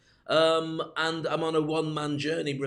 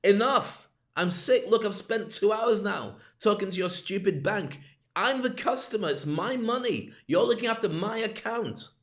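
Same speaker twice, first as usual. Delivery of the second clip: retold angry outburst; 5 semitones higher than usual. Fed up customer snapping at bank staff on phone, angry. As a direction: let the frustration burst out at the bank. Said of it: "And I lost it".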